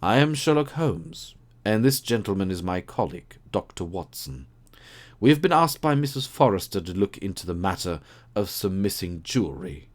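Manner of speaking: lightly voiced keen detective; Holmes voice. Holmes voiced in read story.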